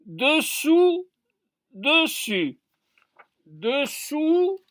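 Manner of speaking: "Dessous, dessus" with a rounded de-; careful pronunciation demo. Shown as a demonstration. Teacher contrasting below and above, "Dessous, dessus" enunciated carefully. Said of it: "On dit de".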